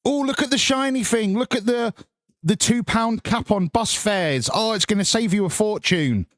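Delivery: like a cheesy stage magician distracting the crowd; mock magician showman. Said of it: "he's basically doing a magic show".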